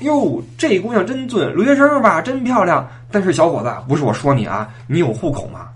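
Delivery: gush, then grill him like an auntie; old auntie voice. Retold or imitated. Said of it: "老大妈看看苏苏说".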